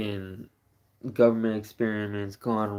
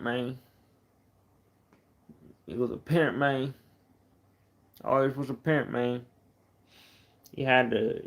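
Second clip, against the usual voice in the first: put-on Texas accent; 2 semitones higher than usual. Streamer tells viewers about pimp Uncle Bobby, in a light Texas accent. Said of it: "That was that Texas shit".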